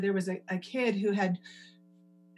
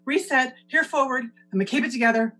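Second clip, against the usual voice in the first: composing herself; 4 semitones higher, 4 dB louder than usual. Real, not acted. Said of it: "I'm not gonna cry".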